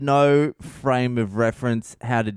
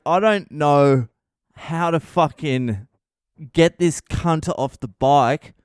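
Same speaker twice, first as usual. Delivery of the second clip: exasperated; 4 semitones higher, 4 dB louder, slower than usual. Retold or imitated. Retelling frustrated inner quote.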